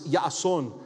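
Yason as YAH-son, falling; Twi reply. Shown as a demonstration. Preacher teaching the Twi reply, with a falling end. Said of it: "the response is".

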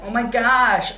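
high, loud starstruck gasp; gushing American girl. Retold or imitated. American girls gushing at an English guy. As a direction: gush like an awestruck fan. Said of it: "they're like".

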